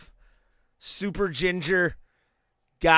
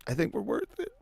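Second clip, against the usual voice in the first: put-on voice; 5 semitones higher, 8 dB quieter, much faster than usual.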